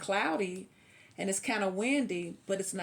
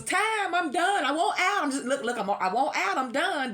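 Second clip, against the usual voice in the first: high, loud laughing whine of quitting; hammed-up high wail, laughing through it; mock giving up; 8 semitones higher, 4 dB louder than usual. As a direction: play the dramatic quitter, laughing. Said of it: "all I had to say was".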